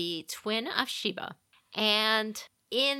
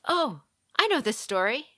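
higher, louder eager pupil; eager interruption; 6 semitones higher, 6 dB louder than usual. Retold or imitated. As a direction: butt in, keen to show you know.

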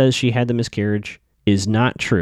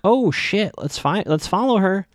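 high, urgent, excited whisper-shout; excited gasp; 9 semitones higher, slower than usual. Retold or imitated. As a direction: blurt it out in a rush of alarm. Friends spotting Jenna, urgent.

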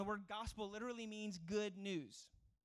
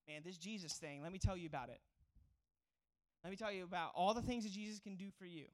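used car salesman; 3 semitones lower than usual. Retold or imitated. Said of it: "they sound like a used car salesman".

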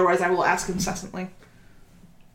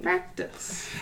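high, airy whispered echo; 12 semitones higher, 6 dB quieter than usual. Retold or imitated. Player echoing a friend's word, whispered.

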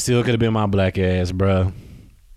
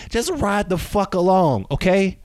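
high, slow shout of ride the fuck along; yelling; 8 semitones higher than usual. Real, not acted. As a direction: hammer it at the listeners, slowly. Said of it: "Why am I yelling at y'all?".

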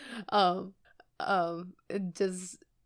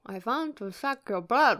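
vampire voice; 3 semitones higher than usual. Acted. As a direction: read the headline as Dracula, cracking up. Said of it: "in your vampire voice".

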